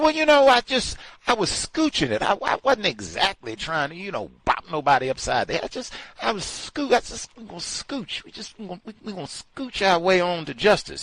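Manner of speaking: mock rioter. Rioter voiced again, higher.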